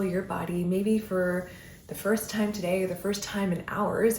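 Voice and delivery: soothing breath-by-breath guidance; guided meditation. Acted. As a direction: ease the listener into stillness, one breath at a time.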